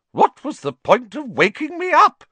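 high, loud, grumpy portrait calling after him. Acted. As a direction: complain loudly as the woken portrait. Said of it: "the fat lady called grumpily".

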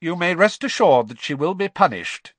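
high, loud, severe pronouncement; stern, unfeeling authority; coldly. A narrator's reading. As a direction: promise it with cold severity. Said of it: "added coldly".

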